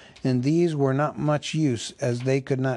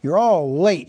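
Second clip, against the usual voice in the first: put-on louder, higher grumbling old butler; 4 semitones higher, 7 dB louder than usual. Butler grumbling at the late elves, raised and cross. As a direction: grumble at the latecomers. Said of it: "he grumbled".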